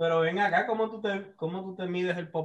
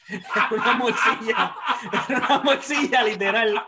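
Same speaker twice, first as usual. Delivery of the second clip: laughing; 6 semitones higher, 6 dB louder than usual. Real, not acted. Laughing at the sausage joke.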